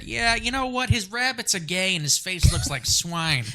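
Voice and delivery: Nick Anthony. Retold or imitated. Friend insulting someone, lightly imitated. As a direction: lightly mimic the way he talks, slowing on the last line. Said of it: "Just the way he talks".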